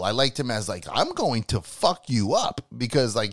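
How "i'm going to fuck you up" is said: slow, menacing mock heel threat; deliberate, hammed-up heel promo; Apollo Crews. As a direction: play the wrestling villain, word by word. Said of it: "I liked him as that heel".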